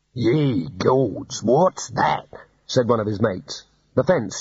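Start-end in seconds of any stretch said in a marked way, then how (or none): 0.1-2.3 slow, stretched-out astonishment; aghast, drawing the words out; alarmed shearer. A narrator's reading. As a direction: exclaim in mild alarm. Mate alarmed by the ram.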